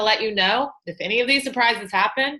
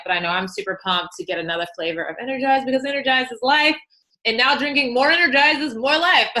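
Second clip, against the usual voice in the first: worked up. Real, not acted. Coach gushing over a new drink flavor, getting worked up. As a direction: get carried away with enthusiasm. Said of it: "I'm getting worked up".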